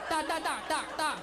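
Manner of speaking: Zelensky. Acted. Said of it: "I wish Zelensky said that to Trump".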